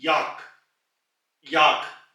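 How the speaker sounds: याक with an open aa; याक, aa held open; German vowel. Shown as a demonstration. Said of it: "ये आवाज ऊपर को चली जाएगी". (याक, खुली आ)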